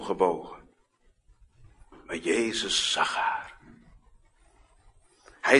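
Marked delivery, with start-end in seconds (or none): none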